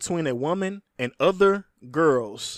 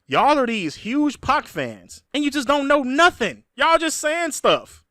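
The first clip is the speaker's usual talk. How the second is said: exasperated; 9 semitones higher, 4 dB louder than usual. Real, not acted. Exasperated rant at fans.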